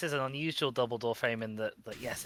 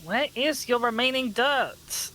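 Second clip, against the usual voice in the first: high searching question; 10 semitones higher, 5 dB louder, slower than usual. Real, not acted. Searching the door frame.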